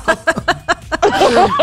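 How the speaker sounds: bright burst of laughter; high laugh. Real, not acted. Laughs at own joke.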